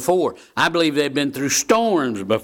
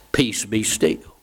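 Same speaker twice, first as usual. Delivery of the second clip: calm command; 3 semitones lower, slower than usual. Retold or imitated. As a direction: speak them as if stilling the storm, slowly. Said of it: "Lord just calmly got up".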